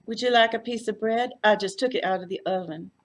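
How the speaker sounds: loud, high, gushing South Texas welcome; Texas hostess. A narrator's reading. Floy greeting her uniformed guest, gushing Texas hostess. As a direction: fuss over the guest like a Texas aunt. Floy's voice.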